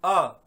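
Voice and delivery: अ held long and loud; स्वर का उच्चारण. Shown as a demonstration. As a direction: let a drawn-out अ flow out unobstructed. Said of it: "जब स्वरों का उच्चारण करते हैं". (अ को लंबा और ज़ोर से बोलें)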